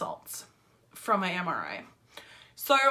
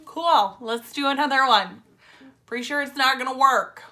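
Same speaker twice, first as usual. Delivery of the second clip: louder mock enthusiasm; sarcastic agreement; 3 semitones higher, 6 dB louder than usual. Patient told of another shot, sarcastic agreement. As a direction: agree loudly with no faith in it.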